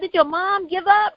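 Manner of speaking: mildly shocked retold question; retold disbelief. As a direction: ask it as if you can't believe it.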